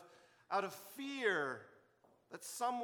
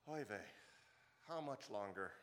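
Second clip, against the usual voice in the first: put-on Yiddish accent; 7 semitones lower, 4 dB quieter than usual. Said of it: "the dad, like God, might say".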